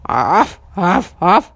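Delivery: loud barking; puppy bark. A narrator's reading. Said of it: "залаял щенок".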